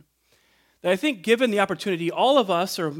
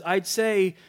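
raised, indignant retelling of an angry atheist; indignant anger; 3 semitones higher than usual. Retold or imitated. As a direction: hurl the accusation at God with indignation. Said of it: "tone of indignation and anger".

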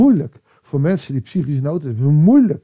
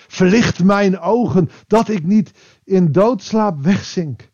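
slow, solemn reading of the psalm line; slow scripture reading; 3 semitones higher, slower than usual. Shown as a demonstration. Preacher reading the psalm to the congregation, slow and solemn. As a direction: let each word of the verse land slowly. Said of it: "Mooi, hè?".

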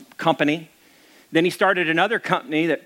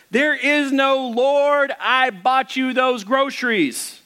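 atheist shouting; 9 semitones higher, slower than usual. A narrator's reading. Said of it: "jumps out of the hedges and shouted".

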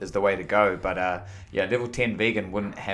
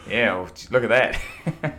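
laughing; 2 semitones higher, slower than usual. Real, not acted. Laughing at Muhammad link.

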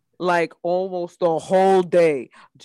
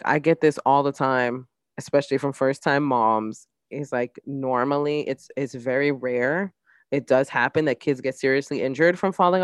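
calm doctor voice; 4 semitones lower than usual. Retold or imitated. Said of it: "his pediatrician was just like".

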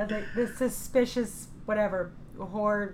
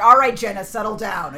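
deep calming voice; 3 semitones higher, 12 dB louder than usual. Retold or imitated. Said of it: "I got real deep".

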